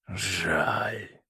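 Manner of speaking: soft, regretful murmur; muttering. A narrator's reading. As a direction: mutter it under the breath. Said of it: "пробормотал он". (тихо пробормотать)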